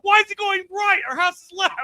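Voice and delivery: sudden panic about the driver; alarmed realization. Retold or imitated. Husband noticing the wrong route, mock alarm. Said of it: "I'm like".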